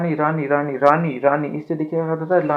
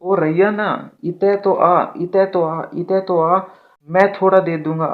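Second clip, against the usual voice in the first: put-on coaxing a child; 3 dB louder, slower than usual. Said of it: "तो आप क्या बोलेंगे".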